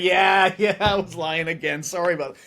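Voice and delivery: chuckling casual admission; laughing confession. Retold or imitated. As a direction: own up with a careless laugh. AI admitting lying, laughing.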